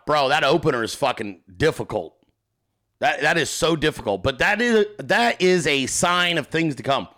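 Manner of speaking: talking with a swollen tongue. Real, not acted. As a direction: speak around a swollen, sore tongue. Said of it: "My tongue is swollen".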